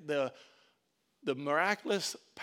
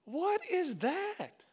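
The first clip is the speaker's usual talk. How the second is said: hushed drawn-out disbelief; 13 semitones higher, 3 dB louder, much slower than usual. Retold or imitated. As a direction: let the wonder sink in, slowly. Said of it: "Be like".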